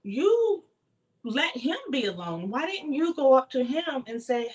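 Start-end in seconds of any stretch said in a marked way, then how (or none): 0.0-0.6 mock crying. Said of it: "where she's crying and being like".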